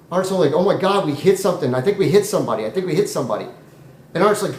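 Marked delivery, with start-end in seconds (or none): 0.5-3.5 worried, repetitive exclaiming; a touch of alarm, easing as it repeats; play-acting a shaken friend; mild acted panic. Art panics after the crash.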